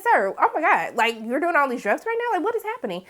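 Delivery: high, hushed disbelief; shocked. Retold or imitated. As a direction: pitch up in stunned disbelief. Shocked reaction to drug offers.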